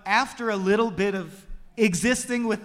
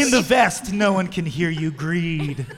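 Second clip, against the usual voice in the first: horror trailer voice; 2 semitones lower, 5 dB louder than usual. Pretend.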